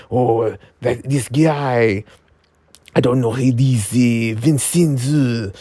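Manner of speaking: mock French accent, hesitant; Astruck. Imagining the creator's reply to him, in a French accent. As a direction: put on a rough French accent. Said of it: "That's my French accent".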